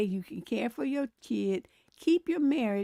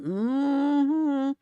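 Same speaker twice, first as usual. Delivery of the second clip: a louder knowing church-lady hum; imitating old black woman; 4 semitones higher, 6 dB louder than usual. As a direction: hum like a grandma judging you. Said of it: "I can't even imitate it".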